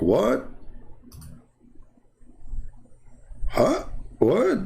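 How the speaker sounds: high-pitched shocked "Huh?"; retold shock, voice leaping high. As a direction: jump way up in disbelief. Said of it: "I was, like, shocked".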